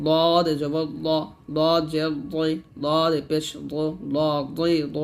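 দদ pressed heavy from tongue side against molars; thick heavy Dad. Shown as a demonstration. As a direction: recite দ, দই with a thick, full d. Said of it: "মোটা করে উচ্চারণ করতে হবে". ("দদ" মোটা করে উচ্চারণ)

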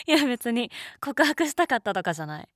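laughing, high and loud denial; flustered laughing. Real, not acted. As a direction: blurt it out through a laugh.

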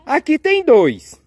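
high, emphatic disbelief; baffled surprise. Pretend. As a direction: play up the bafflement, high and loud. Puzzled by an unexpected second egg. (surpresa incrédula, voz aguda)

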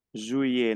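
juillet with the T left off; silent final T. Shown as a demonstration. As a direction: drop the T at the end of juillet. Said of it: "No pronuncio la T". (juillet sin pronunciar la T)

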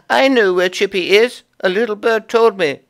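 very high, indignant chipmunk wife; high upset chipmunk wife; Mrs Chippy voice. Acted. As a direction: complain about the nuts, high and fussy.

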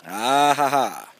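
slow, drawn-out "ah ha ha"; knowing "ah ha ha". Real, not acted. Knowing reaction to company's stated motive.

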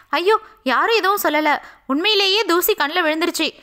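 put-on young woman insisting nothing is wrong, hiding tears; hurried denial. Hiding tears, denying to father-in-law.

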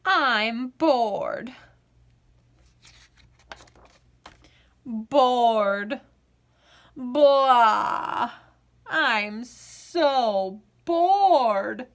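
put-on whiny kid dragging out her boredom; bored little girl. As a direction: sigh it out like a bored child. Bored girl opens the story.

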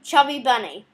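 cheeks stuffed with marshmallows; mouth full. Real, not acted. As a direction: talk through a mouthful of marshmallows.

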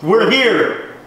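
high crackly device voice; a voice through static; spirit box voice. Real, not acted.

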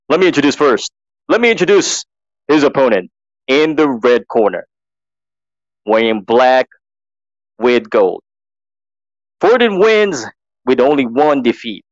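lightly voiced ring announcer. Announcer practicing the red corner introduction, measured ring announcing. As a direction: present the opponent in short, separated phrases. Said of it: "so I'm practicing".

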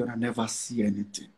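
a hushed, ominous aside to his critics; low, quiet warning. Real, not acted. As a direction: drop the voice right down on "una never see anything". Warning critics, repeated for emphasis.

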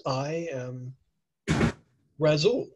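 dry, mocking self-introduction; sarcastic. Mystic reading his own shop sign aloud, mildly sarcastic. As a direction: read his own sign back with a sneer. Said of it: "And he says it sarcastically".

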